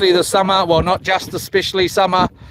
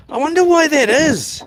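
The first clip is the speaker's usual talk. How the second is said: mock puzzled; 7 semitones higher than usual. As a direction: play up the confusion, pitched up. Puzzled at missing dollar sign.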